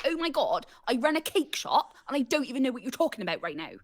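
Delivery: put-on over-the-top Bristol accent; deliberately awful Bristolian accent; exaggerated Bristolian. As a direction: ham up a Bristolian character. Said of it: "exaggerated, like, not good".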